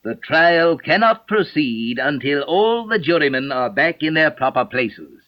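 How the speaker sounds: slow, grave royal pronouncement; grave king voice. Acted. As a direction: speak slowly like a solemn king. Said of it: "in a very grave voice".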